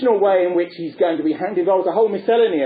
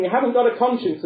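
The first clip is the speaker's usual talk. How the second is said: put-on children yelling; 6 semitones higher than usual. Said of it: "they all scream".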